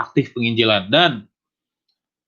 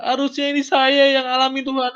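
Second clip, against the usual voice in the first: high-pitched, pleading wail to God; anguished cry; 11 semitones higher than usual. Retold or imitated. Believer telling God he should have suffered instead, anguished wail. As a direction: plead high, overwhelmed by unworthiness.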